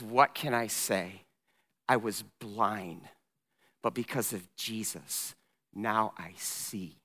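slow, low and soft, with pauses; hushed testimony. Acted. Healed man answers his interrogators, hushed and simple.

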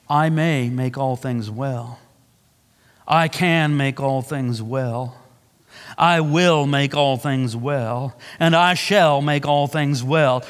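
slow, low, each word weighed; a slow, grave, measured declaration; slow solemn promise. Acted. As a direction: lay down the promise slowly, deliberately. Voicing Jesus's promise slowly.

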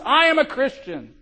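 high, loud triumphant yell; shouting at top of lungs. Acted. Guard Sempronius running onto the ice, loud high yell. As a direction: shout it with all your lungs. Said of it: "shouting at the top of his lungs".

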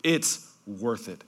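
soft, slow and sure, as John; hushed, slow, voicing John's conviction. Preacher voicing John to his listeners, soft and slow. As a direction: say it quietly, like a settled truth. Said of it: "John's response is basically".

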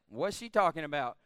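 low, puzzled aside; puzzled servants. Acted. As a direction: drop it down like a baffled onlooker. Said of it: "servants probably looked at her like".

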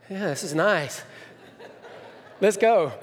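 shaky laughing bluff of calm; laughing bravado. Retold or imitated. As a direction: fake calm that cracks into a laugh. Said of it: "I'm like".

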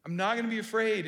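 tentative self-assurance; unsure affirmation. Pretend. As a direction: say it doubting yourself. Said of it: "it's like a question mark".

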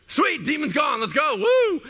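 high, loud whooping celebration; all fired up. Retold or imitated. Newcomer celebrating the demon's exit, all fired up. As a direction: whoop it up, rising to a shriek. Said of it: "they're just all fired up".

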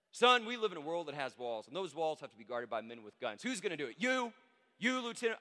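loud lecturing witness, peaking high; heated movie-monologue delivery; indignant tirade. Acted. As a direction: lecture him, then jab out the questions. Continues acted witness tirade from film.

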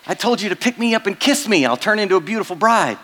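high, fast squeaky frog; an impatient little frog nagging from a pocket; high cartoon frog, fast and indignant; talking frog. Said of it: "And the frog says".

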